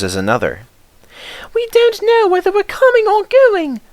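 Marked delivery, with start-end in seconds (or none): 1.5-3.8 high, strained coach voice; flustered coaches. A narrator's reading. Coaches worn out by endless trains, fretting high and flustered. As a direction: fret like overworked coaches. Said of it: "they protested".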